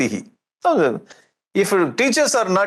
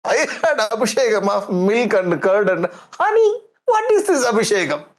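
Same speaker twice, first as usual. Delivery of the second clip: mock angry father; 5 semitones higher than usual. Storyteller acts angry Hiranyakashipu.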